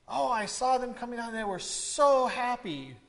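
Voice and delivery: heighten "so", stretching it long; emphatic everyday exclamation, long "so"; stress on SO. Shown as a demonstration. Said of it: "we would heighten something".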